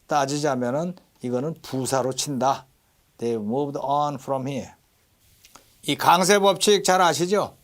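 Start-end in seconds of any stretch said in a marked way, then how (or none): 3.2-4.7 "on" drawn out and stressed. Shown as a demonstration. Teacher models the verse for students, stress on "on". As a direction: slowly, lean on the word "on". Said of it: "강세가 딱 들어가요".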